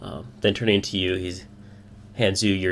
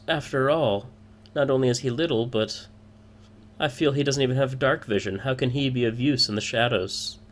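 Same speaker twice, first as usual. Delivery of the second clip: higher, sly woman's voice; sly smirk; 5 semitones higher than usual. Acted. Woman mocks the little man to the party, slyly. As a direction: needle a rival with a sly smirk. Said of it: "gets a very sly smirk".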